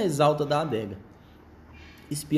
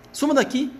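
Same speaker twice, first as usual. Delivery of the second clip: high, sharp rat squeak; twitchy squeaking rat voice; 12 semitones higher, 4 dB louder than usual. Acted. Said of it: "guinchou o rato".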